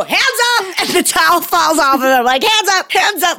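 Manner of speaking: high alarmed cry, like being arrested; mock panicked hands up. Nanny panics at the boy's words, high mock alarm. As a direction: yelp it like a startled suspect. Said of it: "Like I'm being arrested".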